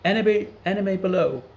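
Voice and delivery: high, loud squawking bird cry; a parrot shrieking a warning from above; screeching parrot. A narrator's reading. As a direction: screech it like a parrot raising the alarm. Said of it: "screeched the parrot".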